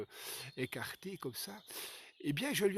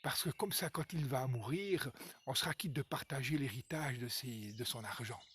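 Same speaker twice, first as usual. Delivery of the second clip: hushed, syrupy daughter-in-law coaxing her husband; softly sweet-talk, nearly whispering at first; sugary, lowered voice; honeyed voice; 4 dB quieter than usual. Acted. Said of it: "avec sa petite voix mielleuse".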